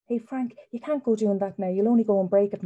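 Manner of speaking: a hint of an exasperated mother; scolding mother. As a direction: call out a mild telling-off. Mother scolds in story dialogue.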